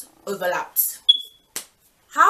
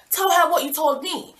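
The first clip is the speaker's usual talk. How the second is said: higher, louder demand, pressing him; demanding he repeat it, voice raised; insistent demand; 8 semitones higher, 5 dB louder than usual. Retold or imitated. Girlfriend pressing her cheating boyfriend, raised demand.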